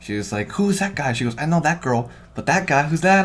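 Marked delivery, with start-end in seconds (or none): 0.5-1.1 higher-pitched nosy question; retold question, voice lifted high; imitated moviegoer. Voices a talkative woman in cinema. 1.4-3.2 higher, louder chatty mimicry; nosy commentary, pitched up; imitated moviegoer. Voices a talkative woman in cinema.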